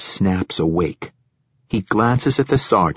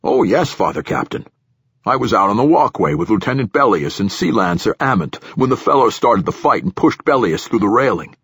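nervous platform director; 3 semitones higher, 3 dB louder than usual. Acted.

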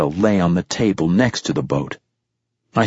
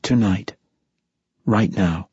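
tired but firm. A narrator's reading. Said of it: "tiredly but firmly".

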